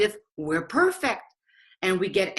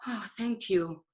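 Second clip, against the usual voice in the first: relieved thanks; 6 dB quieter than usual. Retold or imitated. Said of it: "you're like".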